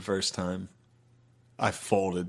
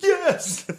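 mock tearful confession; 4 dB louder than usual. Confessing to dad after being hit.

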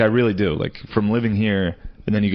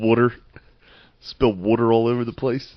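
imitated Philly accent. Teasing co-host over spilled water, imitated Philly accent. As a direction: echo his Philly "Water". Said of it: "the only fucking Philly accent you have".

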